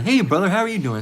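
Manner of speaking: lightly acted friendly hello; friendly greeting. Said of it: "seeing Jake in a good state".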